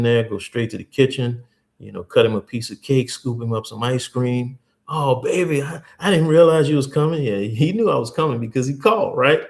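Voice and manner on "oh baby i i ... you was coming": higher and louder, fake surprise; feigned astonishment, pitched up; hammed-up pastor pretending surprise; mock surprised pastor. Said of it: "pastor surprised at the door".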